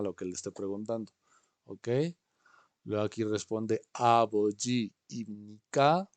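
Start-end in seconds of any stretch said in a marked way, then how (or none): 3.9-6.1 model phrase. Shown as a demonstration.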